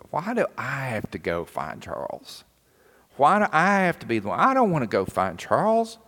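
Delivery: rising, reluctant whine about the chore; whiny inner grumble. Retold or imitated. Boy thinking, sent to fetch Charles, whining. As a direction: sulk like a kid sent on an errand. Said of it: "I was really thinking".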